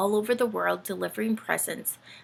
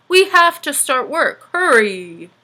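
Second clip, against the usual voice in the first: loud urging call; urgent Santa; 6 semitones higher, 10 dB louder, slower than usual. Acted. Santa urging the elves, loud. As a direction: hurry them along.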